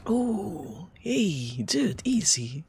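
slow hushed whisper. Real, not acted. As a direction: whisper it so nobody hears. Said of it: "I think I'm too loud".

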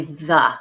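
"the" with a voiced th; teacher models the word. Shown as a demonstration. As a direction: say "the" clearly.

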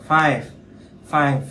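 "five" ending in a puff of air; falling model "five" with its V; final airy V. Shown as a demonstration. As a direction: let only air through the V of "five". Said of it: "Âm V đây nó chỉ gió thôi".

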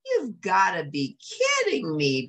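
a hint of groaning disbelief. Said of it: "Tramp groaned".

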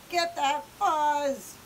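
loud, slow put-on voice; squabbling prairie dog. Prairie dog fighting over fuzz, squabbling loudly.

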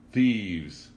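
loud outraged cry, falling away; screamed accusation. A narrator's reading. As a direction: shout it again at the robbers. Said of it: "he screamed".

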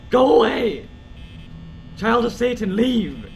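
alarmed French-accented shout. Real, not acted. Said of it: "It's just an instant scared reaction".

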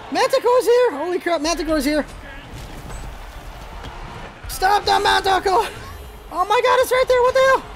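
high-pitched panicked shouting; panicking gamer. Real, not acted. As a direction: yell in alarm as danger appears. Enemy Manticore suddenly arrives.

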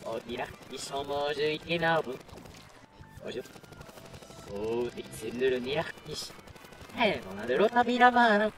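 backwards speech. Shown as a demonstration. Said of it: "逆再生したいと思います".

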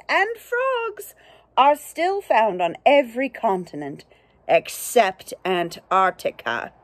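a lightly voiced pompous narrator; narrator reading. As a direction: read it like a know-it-all narrator, slowly. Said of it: "and he says".

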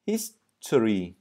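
History said slowly, HIS stressed; stress on first syllable. Shown as a demonstration. Teacher shows learners stress on HIS in History. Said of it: "cho âm rơi vào số một là history".

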